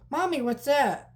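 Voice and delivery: put-on high, drawn-out little kid voice; imitating a child. Kid asking mom during a movie, imitated child voice. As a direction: put on a curious kid pitched well up. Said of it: "Kids will go".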